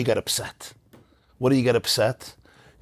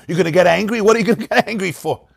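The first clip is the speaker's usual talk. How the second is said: mocking abuser; 5 semitones higher, faster than usual.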